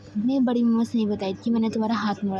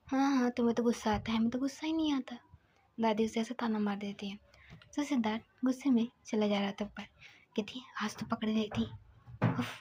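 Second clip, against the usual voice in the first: soft, half-whispered telling; hushed storytelling; 6 dB quieter than usual. Acted. Narrator telling the grandmother's questioning of Siddharth, softly hushed.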